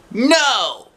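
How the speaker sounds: put-on high, loud child's refusal; sharp no. A narrator's reading. Curly-haired girl refusing to share the seat, loud and high. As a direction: snap it back at her. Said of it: "she said".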